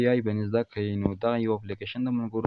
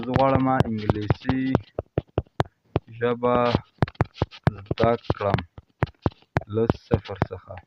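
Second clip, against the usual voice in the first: word by word with long pauses; slow dictation; much slower than usual. Real, not acted. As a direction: dictate it slowly, phrase by phrase. Dictating a prompt to the app.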